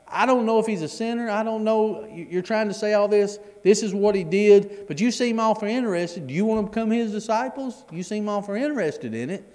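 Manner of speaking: high, mocking sarcastic retort. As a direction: throw it back at them with sarcasm. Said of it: "the sarcasm in his voice".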